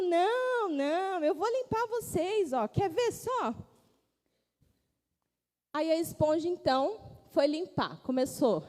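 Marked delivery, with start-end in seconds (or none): 0.0-3.5 eager sponge insisting. Acted. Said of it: "E ela falou".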